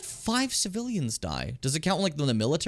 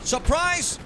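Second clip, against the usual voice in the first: high, loud cry of surprise; mock surprise yell; 10 semitones higher, 4 dB louder than usual. Player ambushing enemies, loud surprise yell. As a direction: pounce on them with a shout.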